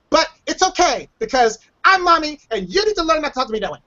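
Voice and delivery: lightly imitated mother, pitch swinging high; a hint of an exaggerated mom laying down the rule; mock mommy. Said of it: "or mommy decided".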